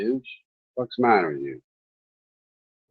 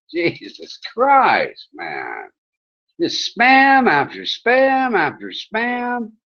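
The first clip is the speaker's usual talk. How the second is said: higher, exasperated telling-off of a spammer; exasperated rant; 5 semitones higher than usual. Real, not acted. Ranting at chat spammer.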